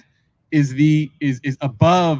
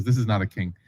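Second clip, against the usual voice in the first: awed hush; 8 semitones lower, 6 dB quieter than usual. Retold or imitated. Awed realization repeated.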